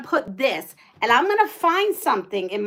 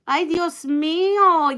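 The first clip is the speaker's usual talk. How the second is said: exasperated Spanish; 4 semitones higher, 3 dB louder, slower than usual. Real, not acted. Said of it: "A word my grandma used to use when she used to get mad".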